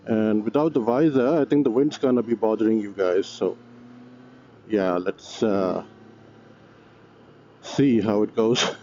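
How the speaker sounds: muffled voice behind a closed visor; talking inside a full-face helmet, muffled. Real, not acted. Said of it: "My visor is fogging up".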